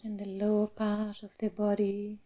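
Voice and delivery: unhurried meditation voice with long pauses; guided meditation. Real, not acted. Meditation teacher settling the class into the body, calm guided meditation. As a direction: guide them gently through the body, phrase by phrase.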